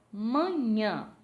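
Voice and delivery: "Manhã" in two firm beats; syllable by syllable. Shown as a demonstration. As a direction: separate MA - NHÃ clearly. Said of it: "dividir as palavras em sílabas".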